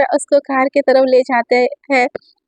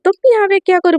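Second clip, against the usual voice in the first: higher, a stunned stammer at the door; shocked; 5 semitones higher than usual. Acted. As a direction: catch your breath at the sight of him. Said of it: "वो देख के shock हो जाती है".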